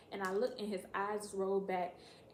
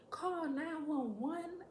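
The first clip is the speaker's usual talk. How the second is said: high, slow mock disbelief; drawn-out, outraged question; incredulous echo; 7 semitones higher, much slower than usual. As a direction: echo it back slowly, high and appalled. Repeats sister's order in disbelief.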